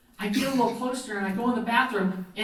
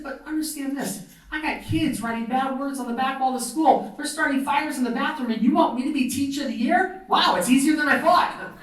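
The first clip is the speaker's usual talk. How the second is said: incredulous protest; 5 semitones higher than usual. Retold or imitated. Incredulous reply to award nomination, acted.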